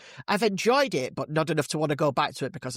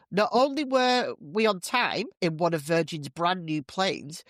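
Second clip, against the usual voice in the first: higher, bragging, delighted; smug woman; 4 semitones higher than usual. Acted. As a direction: gloat about the perfect trip. Woman brags in joke.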